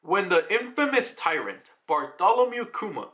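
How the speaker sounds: measured storybook narrator read. Acted. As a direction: announce it as a manga narrator. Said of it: "Now we get the narrator".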